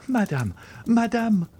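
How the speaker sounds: high urgent call to the stepmother; crying out. A narrator's reading. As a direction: call upstairs in alarm. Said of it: "cried Valentine".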